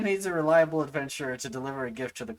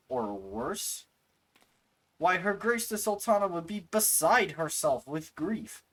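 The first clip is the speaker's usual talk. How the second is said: character voice; 6 semitones higher than usual. Acted. Voicing game NPCs.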